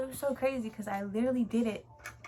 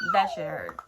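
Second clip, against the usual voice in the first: much higher and louder, still laughing; laughing through pain; 7 dB louder than usual. Real, not acted. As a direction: squeal it out between laughs. Laughing about painful IV.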